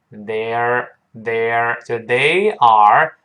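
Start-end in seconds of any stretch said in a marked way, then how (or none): 0.1-1.8 slow, drawn-out "They're" as one syllable; contraction demo. Shown as a demonstration. Teacher showing the contraction, slow single-syllable they're. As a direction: stretch "they're", curling into the R. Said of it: "把那R变成撇儿".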